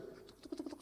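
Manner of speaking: quick, soft tuk-tuk footstep noises; imitated toddling steps. Child walking off alone on road, soft imitated footsteps. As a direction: tap out little steps with the tongue.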